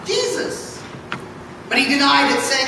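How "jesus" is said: higher, laughing recognition; teasing accusation. Acted. Maid recognizing Peter by the fire, laughing. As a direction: catch him out with a laugh.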